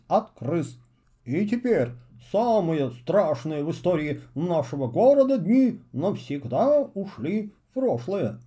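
grand ceremonial newspaper reading; solemn reading voice. Acted. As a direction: read it out like a proclamation. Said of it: "продолжил читать".

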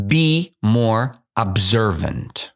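slow, deliberate dictation. Shown as a demonstration. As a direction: spell it out word by word. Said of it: "I will read it again".

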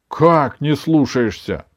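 surprised. A narrator's reading. Grandmother hearing that her grandson disobeys her, surprised. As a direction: slowly echo it in disbelief. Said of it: "удивилась бабушка".

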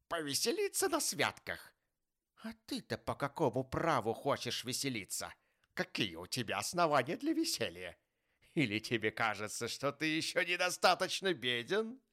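loud, high-pitched scornful challenge; grouchy Scrooge, scornful. A narrator's reading. Scrooge challenging his poor nephew's merriment, scornful. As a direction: throw indignant questions at the youngster.

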